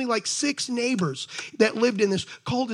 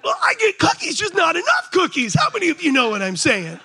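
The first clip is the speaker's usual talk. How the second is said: mock complaint; 6 semitones higher than usual. Husband complaining about cookies.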